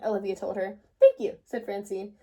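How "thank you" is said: delighted. A narrator's reading. Francine's delighted thanks.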